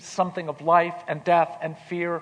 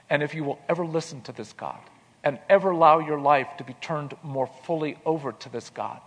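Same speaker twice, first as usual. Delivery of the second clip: tender blessing. Retold or imitated. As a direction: speak it like a prayer over him. Mentor's tender blessing to student.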